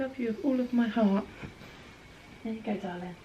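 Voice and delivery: high, sing-song pet voice. Real, not acted. Owner fussing over her dog Boz, cooing.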